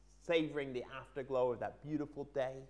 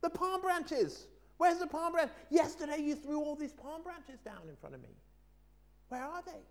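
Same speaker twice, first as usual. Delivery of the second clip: donkey shouting; 12 semitones higher than usual. Acted. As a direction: bellow it up high, demanding the branches back. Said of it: "And he shouted".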